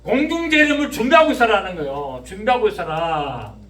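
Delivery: full-force preaching. Real, not acted. Preacher warning congregation the Son of Man will come, full-force preaching. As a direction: press each question on the congregation, loud and high.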